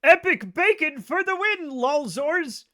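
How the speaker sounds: high, loud mock-nerdy internet voice; Slater impression. Mocking friend Slater's meme talk, a high loud nerdy voice. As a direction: ham up a cringe meme-talker. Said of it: "He'd be like".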